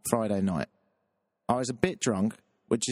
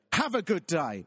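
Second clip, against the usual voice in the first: higher, falsely pleasant send-off; sugary brush-off, imitated; pointed have-a-good-day tone; 5 semitones higher than usual. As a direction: say the pleasantry as a veiled insult. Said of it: "uh, in that tone".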